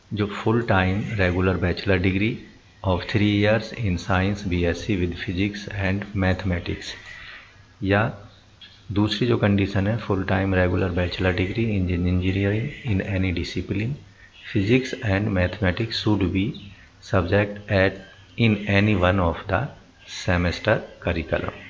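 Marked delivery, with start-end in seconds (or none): 0.4-6.9 slow, word-by-word reading of the notice; slow reading aloud. Acted. Reading the job advert slowly for viewers. 10.0-21.6 slow, word-by-word reading of the notice; slow reading aloud. Acted. Reading the job advert slowly for viewers.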